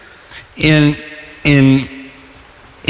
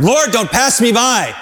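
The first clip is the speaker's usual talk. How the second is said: pleading cry; 5 semitones higher than usual. Acted. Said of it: "Abraham had to ask for him".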